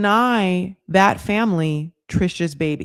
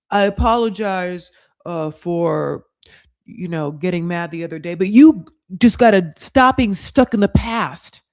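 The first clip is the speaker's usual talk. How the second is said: mock non-apology, turning louder into blame; half-hearted apology; 5 dB louder than usual. Rick apologizing to Trish for picking a fight, mock insincere. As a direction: imitate a grudging sorry that becomes a scolding. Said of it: "he doesn't really apologize".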